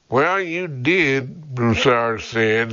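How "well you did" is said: slow, mildly gruff man's reply. A narrator's reading. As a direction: say it a touch gruffly, higher at the start, drawn out. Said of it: "his tone gruff".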